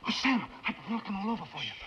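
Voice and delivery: excited rush of relief; too loud, agitated. Acted. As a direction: blurt it out in a rush, heedless of listeners. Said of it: "Keep your voice down".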